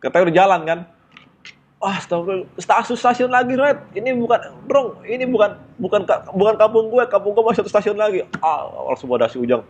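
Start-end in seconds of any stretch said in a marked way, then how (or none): 1.8-8.3 dismayed exclamation. Retold or imitated. Realizing wrong station, dismayed.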